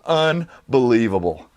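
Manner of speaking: ordinary delivery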